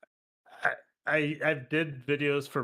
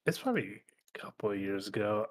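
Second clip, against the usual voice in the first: whispering. Real, not acted. Quiet hedge.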